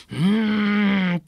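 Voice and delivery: slow drawn-out pondering hum; a long hmm while thinking it over; thoughtful hmm. Acted. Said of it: "と栄一". (考え込む長いうーん)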